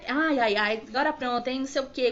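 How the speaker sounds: imitating a scoffing anaesthetist; loud mock sigh, then dismissive; retold jeer at a crying patient. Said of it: "Começou a debochar".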